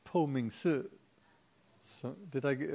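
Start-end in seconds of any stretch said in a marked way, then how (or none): 0.0-0.8 Chinese accent. Shown as a demonstration. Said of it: "try and say it in a Chinese accent".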